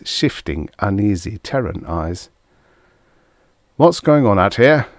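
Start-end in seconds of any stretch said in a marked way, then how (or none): 3.8-4.9 raised, higher and louder demand. A narrator's reading. Commanding officer to the arguing group at the jeeps, demanding. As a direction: demand an answer, voice up. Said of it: "Duval demanded".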